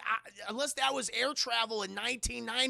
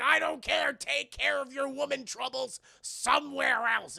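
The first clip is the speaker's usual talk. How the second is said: loud, raised, drawn-out order; mock gruff dismissal; 5 semitones higher, 6 dB louder than usual. Man dismissing the woman he throws out, loud mock order. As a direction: overrule them loudly, stretching the words. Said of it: "He's like".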